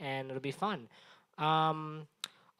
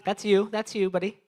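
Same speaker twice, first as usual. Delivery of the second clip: louder and higher, landing hard on you; emphatic callout; 5 semitones higher, 6 dB louder than usual. Acted. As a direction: jab the word you at him across the room. Pointing out an audience member.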